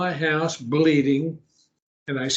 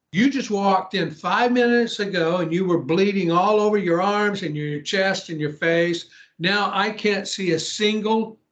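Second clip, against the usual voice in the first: retold astonished challenge, slightly raised pitch; incredulous; 3 semitones higher than usual. Host confronts woman whose cuts have vanished, incredulous. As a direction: press the point in mild disbelief.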